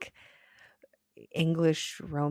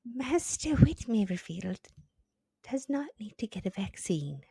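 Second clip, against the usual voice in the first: higher mock Southern voice fading to a whisper; hammed-up Southern doctor; Southern accent; 6 semitones higher than usual. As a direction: finish the doctor's note in an American Southern accent. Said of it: "that was a classic American Southern accent".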